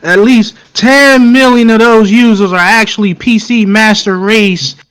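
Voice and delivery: heavy old world accent, lightly put on; old country voice. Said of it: "on my old country voice now".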